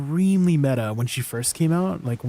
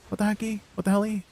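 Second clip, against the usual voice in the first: high playful mock-outraged what; cutesy outrage; 7 semitones higher, faster than usual. Real, not acted. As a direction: squeak it out in cute disbelief. Playful cutesy swearing at chat.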